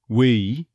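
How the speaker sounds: "We" as "wuh-EE"; on-glide E. Shown as a demonstration. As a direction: glide up onto the E in "We". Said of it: "There's that on glide".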